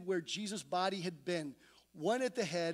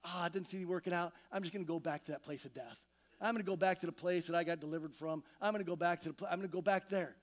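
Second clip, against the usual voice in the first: defeated resignation; 2 semitones lower, faster than usual. Retold or imitated. A weary believer giving up on faith, mock-defeated. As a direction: shrug it off and give up quickly. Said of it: "isn't that what we do so often?".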